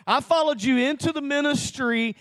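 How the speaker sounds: the repeated plea reaching its peak; heated plea. Retold or imitated. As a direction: push it up into an anguished protest. Arguing with the Lord, retold.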